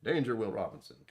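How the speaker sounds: robot alert voice. Retold or imitated. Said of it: "That is a reference".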